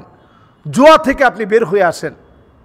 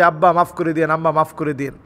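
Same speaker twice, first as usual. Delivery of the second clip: low, hushed apology; soft pleading; 6 semitones lower, 6 dB quieter, faster than usual. Acted. Child phoning parents to ask forgiveness, soft low plea.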